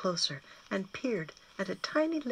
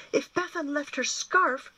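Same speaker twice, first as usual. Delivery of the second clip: sudden excited cry, high and loud, slowly; exclaimed aloud; 9 semitones higher, 5 dB louder than usual. A narrator's reading. Gwyn alone in the attic, exclaiming his hope aloud. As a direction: burst out with a hopeful idea. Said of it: "Gwyn exclaimed aloud".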